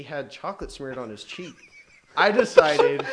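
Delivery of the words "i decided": breaking up mid-sentence; can't get the words out for laughing; hysterical laugh. Real, not acted. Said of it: "Why are you laughing so hard at this?".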